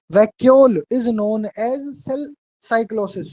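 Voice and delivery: very slow dictated "cell cyclosis", the word cell added by mistake; slow dictation slip. Shown as a demonstration. Teacher dictating to students, slips in "cell" before "cyclosis".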